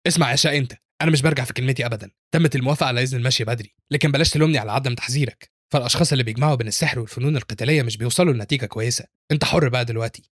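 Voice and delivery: mildly angry parting warning; a touch of sternness, understated anger. Acted. Teacher warning the student before she walks out, mildly angry. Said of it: "قبل ما تخرج بتقول بغضب للين".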